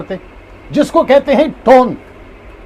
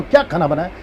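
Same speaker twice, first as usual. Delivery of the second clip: asking tone; 5 semitones lower, 3 dB quieter, faster than usual. Shown as a demonstration. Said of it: "इसको पूछ रहे हैं".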